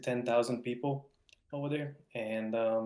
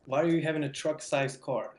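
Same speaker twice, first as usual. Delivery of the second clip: higher, louder mock bewilderment; baffled outburst, tripping over the question; astonished retelling; 5 semitones higher, 5 dB louder than usual. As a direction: replay stammering disbelief, pitched up and loud. Acted astonished reaction to truck.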